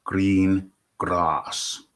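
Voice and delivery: loud, slow, overly enunciated drill; elocution. Pretend. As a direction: boom each word like a voice coach. Tongue-twister drill opening show.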